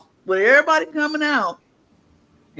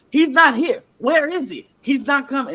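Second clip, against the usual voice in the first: mock panic; 4 semitones higher, 4 dB louder than usual. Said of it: "he freaking out".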